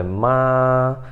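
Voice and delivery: "ma" held long on one pitch; a long, even "ma"; first tone, level. Shown as a demonstration. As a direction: keep "ma" steady without moving up or down. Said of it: "Ele é uma coisa só".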